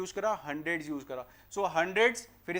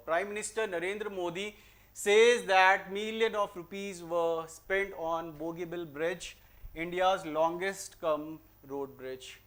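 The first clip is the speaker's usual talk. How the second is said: very slow, careful reading; slow sentence read; much slower than usual. Shown as a demonstration. Teacher to class, reading out question forty-one slowly. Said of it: "reads the test sentence".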